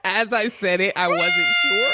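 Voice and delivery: laughing. Real, not acted. Still laughing.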